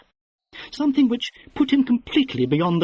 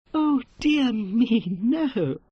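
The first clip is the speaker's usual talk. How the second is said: slow, high, forced hearty laughter; 9 semitones higher, much slower than usual. Acted. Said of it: "laughing with great heartiness".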